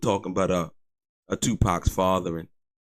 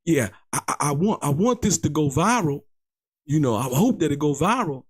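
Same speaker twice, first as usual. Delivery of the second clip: lightly voiced quote, pitched higher; Reggie the Rat Wright Junior; 6 semitones higher than usual. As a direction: imitate someone else's wish in a higher voice. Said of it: "Reggie the Rat Wright Junior was like".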